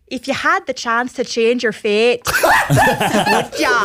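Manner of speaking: slow dramatic trailer read; slow epic trailer voice with a laugh at the end; movie trailer voice. Shown as a demonstration. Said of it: "I have to get into it".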